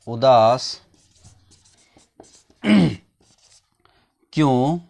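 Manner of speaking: slow, spaced classroom dictation. Shown as a demonstration. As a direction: spell it out slowly for the class. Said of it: "teacher dictates sentence word by word".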